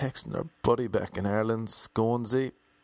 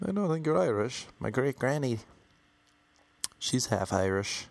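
mock American protest, starting high; lightly voiced American pleading their case, slowing at the end; 4 semitones higher than usual. American claiming Irishness through a great granny, mock protesting. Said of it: "American people, if you tell them".

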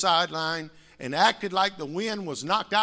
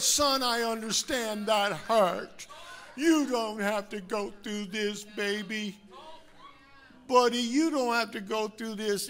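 tender father; 2 semitones higher than usual. Retold or imitated. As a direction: soothe a hurt son. Imagined gentle father.

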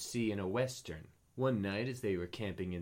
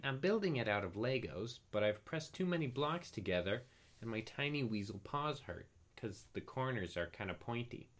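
chatty weasel voice; 3 semitones higher than usual. Acted. Weasel Gregory explains his house.

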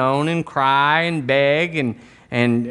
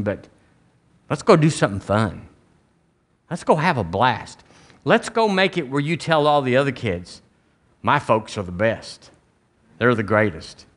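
good father; 4 semitones lower than usual. Acted. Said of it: "a good father says".

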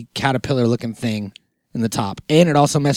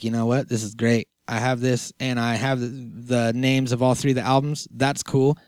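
quiet inner voice; 2 semitones lower, 5 dB quieter than usual. Retold or imitated. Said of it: "I was like".

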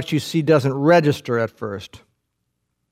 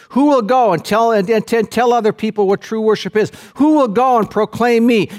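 voice of God calling; 5 semitones higher than usual. Acted. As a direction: call out from on high for a messenger. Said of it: "Isaiah hears this voice in the temple".

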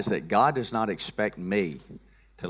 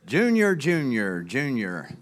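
calling out; 3 semitones higher, 4 dB louder, slower than usual. Pretend. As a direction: call the name, high and loud then dropping. Calling his puppet Junior.

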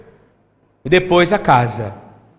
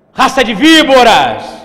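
raised, drawn-out rebuke; loud denunciation; 5 semitones higher, 7 dB louder, slower than usual. Acted. Preacher as the prophet rebuking hearers, loud denunciation. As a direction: cry out "víboras" long and loud.

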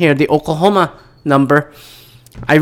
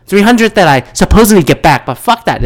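louder, heated and indignant; angry rant; 3 semitones higher, 4 dB louder than usual. Real, not acted. Ranting at the bank over the annual fee, loud and angry. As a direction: vent the fury about the fee. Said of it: "I'm going off on a pretty rant mode".

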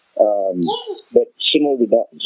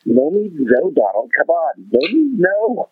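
laughing mock plea; 7 semitones higher, slower than usual.

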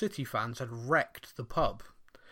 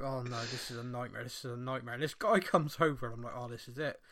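muttered inner dread; 7 dB quieter than usual. Retold or imitated. Inner panic in hostile pub.

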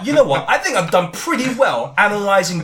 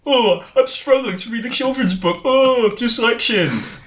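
mocking whine; 4 semitones higher, slower than usual. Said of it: "I don't appreciate the humour of like".

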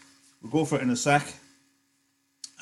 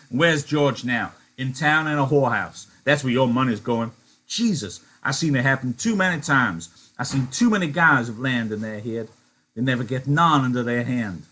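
a little louder, blunt and harsh Crooks; brutal Crooks; 2 semitones higher, 5 dB louder than usual. Acted. Crooks cutting down Candy and Lenny's dream, harsh. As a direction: crush their hopes bluntly. Crooks voiced in read-aloud.

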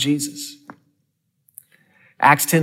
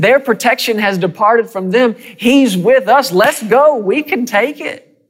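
voicing Caleb; 7 semitones higher than usual. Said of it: "He said".

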